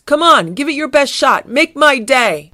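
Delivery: high, loud taunt, slowing at the end; shouted challenge. Acted. Garfield dares the Cosmots to fire, shouted challenge. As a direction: goad them on at full voice. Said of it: "Garfield shouted".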